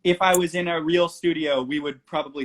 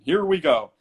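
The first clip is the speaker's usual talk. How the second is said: louder, lightly put-on announcer call; 6 dB louder than usual. Singer recreating the original demo for Bang, mock announcer voice. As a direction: announce it, drawing out the last word. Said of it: "me putting on an announcer voice".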